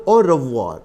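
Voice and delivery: "Au revoir" with the middle R sounded; full pronunciation. Shown as a demonstration. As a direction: say "Au revoir" as oh-ruh-vwar, R audible. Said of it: "It's "Au revoir".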